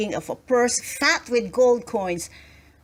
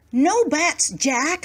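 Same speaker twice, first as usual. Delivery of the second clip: firm, raised insistence; insisting; 7 semitones higher, slower than usual. A narrator's reading. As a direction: shut him down firmly. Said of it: "insisted Missus Hardacre".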